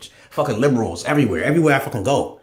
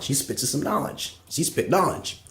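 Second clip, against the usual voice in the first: softer and slower, sinking down on "She spits some knowledge"; quieter repeat; 6 dB quieter, slower than usual. Real, not acted. Grudging praise of Oprah repeated, softer and slower. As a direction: drop it soft and slow, as an aside.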